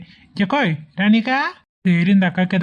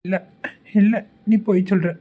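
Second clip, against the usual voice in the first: mock-tearful protest; childish, half-hearted crying; whiny crying. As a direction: whine through put-on sobs. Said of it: "எதுக்கு அழுவுற".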